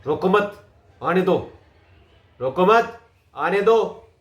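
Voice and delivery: forceful, a touch of anger; mild anger. Shown as a demonstration. Coach demos an angry situation, mildly angry force. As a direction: push each phrase with some force. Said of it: "anger है तो गुस्सा आएगा".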